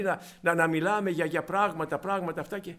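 ordinary delivery

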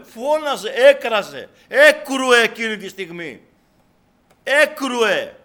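loud, high, hammered verbs; fervent preacher shouting. Real, not acted. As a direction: drive each verb home at full voice. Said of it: "Η φωνή μου γιατί είναι".

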